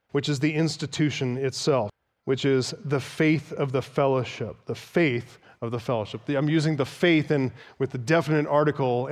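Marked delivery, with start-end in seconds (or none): 2.8-4.6 "the" set apart with emphasis before faith; stress on "the". Shown as a demonstration. Preacher stressing the definite article to his congregation, emphatic "the". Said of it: "emphasis on that to emphasize". 4.7-5.4 low, deliberate "the" marked out before faith; stress on "the". Shown as a demonstration. Preacher repeating the phrase to mean a particular faith, "the" emphasized. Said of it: "emphasis on that to emphasize".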